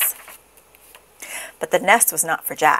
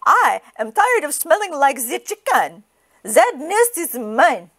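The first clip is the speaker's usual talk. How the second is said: higher fed-up duck claim; 7 semitones higher than usual. Acted. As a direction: grumble as the duck. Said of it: "cried the duck".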